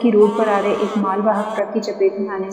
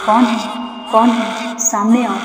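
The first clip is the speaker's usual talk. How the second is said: frantic shouting. Acted. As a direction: yell at the empty house. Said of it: "Tushar चिल्लाता रहा". (अदृश्य से चिल्लाकर डरा हुआ पति, बदहवास चीख)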